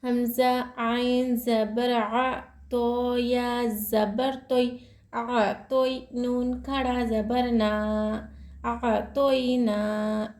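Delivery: slow, measured letter by letter spelling; slow spelling recitation. Shown as a demonstration. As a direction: spell each letter and vowel carefully. Spells out Quran letters slowly. (धीरे धीरे हिज्जे करके पढ़ना)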